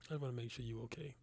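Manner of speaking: whispered, gently checking in; soft whisper. Real, not acted. Teacher whispering to a student who keeps unmuting the mic. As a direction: whisper it softly so only one student hears.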